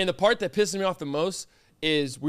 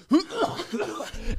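imitated cough; 8 semitones higher, 3 dB quieter than usual. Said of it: "And Peyton goes".

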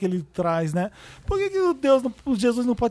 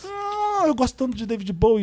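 higher, swooning pretentious fan; mock swooning; 4 semitones higher than usual.

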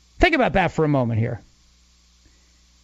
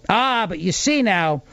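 sly mock reveal. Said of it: "you take it and you go".

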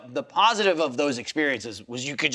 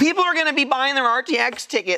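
mock rant; 9 semitones higher than usual. Mock ranting at hosts.

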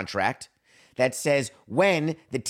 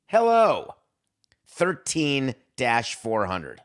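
mock cheery hello; 3 semitones higher, 3 dB louder, much slower than usual. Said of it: "It says".

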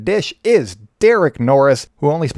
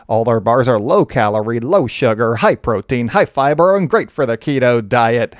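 hyped ring announcer read; boxer announcer voice; 2 semitones lower than usual. Acted. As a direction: call it like a fight announcer. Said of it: "I do that boxer announcer voice".

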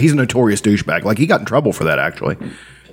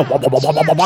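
muffled wah wah talk. Retold or imitated. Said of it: "that horn would always go".

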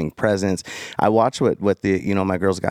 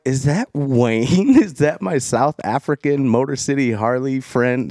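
surprised; 4 semitones higher, slower than usual. Retold or imitated. Spotting old friend on TikTok.

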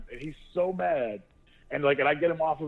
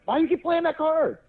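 mock yell; 4 dB louder than usual. Yelling at wife during cards.

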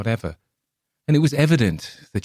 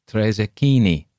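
peddler voice; 3 semitones higher, 5 dB louder than usual. Acted. Coppola demands payment.

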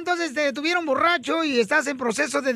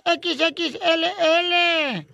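put-on higher-pitched old spinster calling out; viejita de pueblo; 4 semitones higher than usual. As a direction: call to your sister in the back, pitched up. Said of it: "dice una de viejitas". (viejita llamando a su hermana, voz más aguda)

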